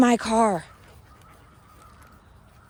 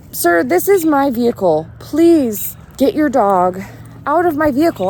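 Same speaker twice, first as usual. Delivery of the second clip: firm raised request; 4 semitones higher, 5 dB louder than usual. Retold or imitated. Firmer request to stranger.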